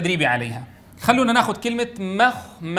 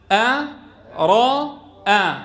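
staccato syllables; 2 semitones higher, much slower than usual. Shown as a demonstration. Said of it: "نقطع الكلمة إلى مقاطع".

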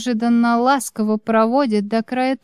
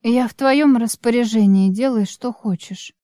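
unperturbed tone. Acted. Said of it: "этот мой невозмутимый тон".

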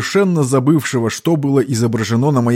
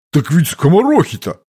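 indignant; 5 semitones higher than usual. A narrator's reading. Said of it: "Возмущению парня не было предела".

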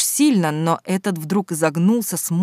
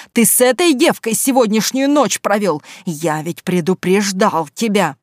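angry accusation; 3 semitones higher, 4 dB louder than usual. Acted. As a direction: hammer him with what you know. Father confronting the lover. (громко и гневно, обличая)

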